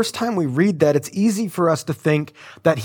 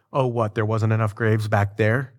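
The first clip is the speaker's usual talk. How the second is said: low, mocking sarcastic whine; 4 semitones lower than usual. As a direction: sneer it back at Moses, lightly. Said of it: "they're responding in sarcasm".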